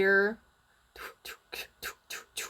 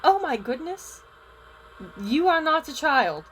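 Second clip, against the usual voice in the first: higher, taken-aback voice; shocked principal; 4 semitones higher than usual. Acted. Principal looks under and finds no child, shocked. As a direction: react to an unexpected find under your desk. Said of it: "looks under and goes".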